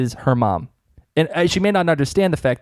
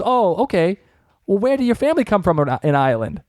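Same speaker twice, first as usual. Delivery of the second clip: clerk; 5 semitones higher than usual. Retold or imitated. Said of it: "And he goes".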